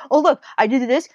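put-on high, loud little kid showing off; eager kid. Imitating kids who rush to tell her things, high and loud. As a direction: bounce it up like an excited child. Voicing chatty kids in story.

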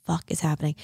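low, hushed what-the-hell under her breath; hushed disbelief. Retold or imitated. Alone upstairs, sensing something wrong: hushed disbelief. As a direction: mutter it to yourself in shock. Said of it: "I'm upstairs ... I'm like".

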